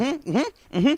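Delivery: high, quick eager hums; rapid high-pitched mock agreement; eager agreeing Darcy. Darcy nodding along to Roussel, eagerly agreeing. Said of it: "Darcy's like nodding her head faster".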